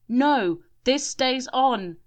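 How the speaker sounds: high, loud, slow refusal; hysterical shout. A narrator's reading. Shelley refusing the officer, hysterical shout. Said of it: "shouted Shelley hysterically".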